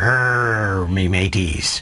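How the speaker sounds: gruff, low pirate growl with drawn-out "Rrr". Giving tips on how to talk like a pirate, growling pirate voice. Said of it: "you have to growl a lot".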